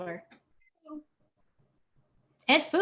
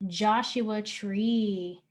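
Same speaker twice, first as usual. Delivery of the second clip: slow, drawn-out bingo call; bingo caller; 3 semitones lower, much slower than usual. Shown as a demonstration. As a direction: stretch out each word like a caller. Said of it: "the last one we'll call".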